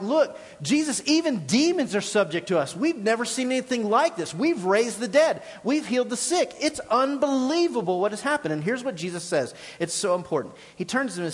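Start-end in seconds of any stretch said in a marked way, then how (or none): 0.0-8.5 higher, eager voice of amazed disciples; retelling excited disciples. Retold or imitated. Disciples reporting to Jesus, hammed-up excitement. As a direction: gush it out like thrilled followers. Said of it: "they're super excited".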